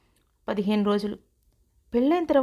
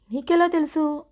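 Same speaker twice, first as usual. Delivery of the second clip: surprised question; 5 semitones higher than usual. Retold or imitated. Bride surprised her aunt knows, asking in astonishment. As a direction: ask it in sudden surprise. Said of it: "అని ఆశ్చర్యంగా చూశాను".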